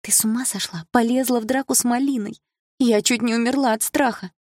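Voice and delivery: high-pitched, agitated friend; alarmed scolding. A narrator's reading. Friend reacts to the fight, alarmed scolding.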